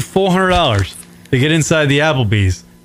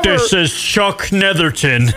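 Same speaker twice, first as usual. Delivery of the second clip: news anchor voice; 3 semitones higher, slower than usual. Pretend. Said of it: "It sounds like a news anchor".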